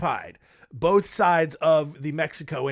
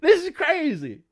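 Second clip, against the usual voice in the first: dude; 10 semitones higher than usual. Retold or imitated. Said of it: "it's just like".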